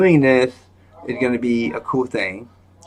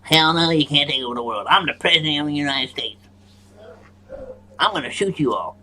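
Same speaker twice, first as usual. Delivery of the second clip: lightly voiced president, a touch defiant; a hint of a blustering president; mock president telling off aliens; Donald Trump impression; 3 semitones higher, 3 dB quieter than usual. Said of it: "Donald Trump's gonna be like".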